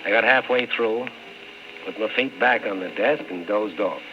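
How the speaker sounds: steady hard-boiled narrator voice, telling it over music; story narration. A narrator's reading. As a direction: narrate it like an old radio detective looking back. Radio detective narrating between scenes.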